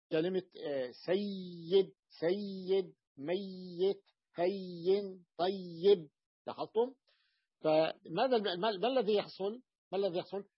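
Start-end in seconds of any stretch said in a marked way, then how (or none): 1.1-6.1 each of "سيد، ميت، هين، طيب" stretched on the double y; doubled ya demo. Shown as a demonstration. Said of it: "ومثلها". (نطق "سيد، ميت، هين، طيب" مع تشديد الياء ومدها)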